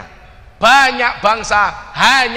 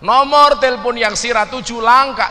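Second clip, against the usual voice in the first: Tegal phone message; 4 semitones higher, 4 dB louder than usual. Retold or imitated. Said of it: "apa jawaban orang Tegal?".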